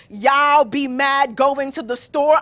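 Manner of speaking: slow, exaggerated mocking slang; mother's slow mock vernacular. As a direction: mimic the slang mockingly, drawing it out. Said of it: "when mommy mocks me".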